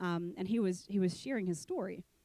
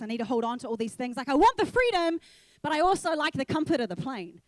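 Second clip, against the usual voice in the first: pleading prayer; 3 semitones higher, 5 dB louder than usual. Retold or imitated. Telling God she wants freedom but clings to comfort, loud and pleading. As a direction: build the plea up loud.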